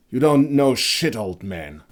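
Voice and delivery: loud, high mocking jab; scornful bark. A narrator's reading. Young hunter mocks Heinrich's ignorance, scornful bark. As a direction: spit the insult at him. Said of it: "the young hunter barked".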